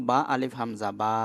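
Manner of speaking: teacher sounding out বা part by part; letter name spelled out. Shown as a demonstration. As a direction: spell out বা আলিফ হামজা, holding the last বা. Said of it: "এভাবে".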